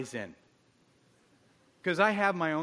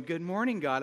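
chipper greeting. Retold or imitated. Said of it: "I don't wake up going".

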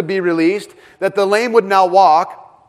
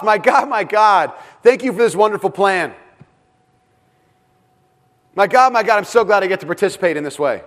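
pitched up, brightly thankful, falsely content; mock cheerful gratitude; 3 semitones higher than usual. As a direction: play it as an absurd cheerful prayer. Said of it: "He doesn't say on the cross".

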